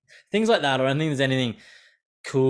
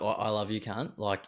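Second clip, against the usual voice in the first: affectionate; 5 dB quieter than usual. Retold or imitated. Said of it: "in the same breath".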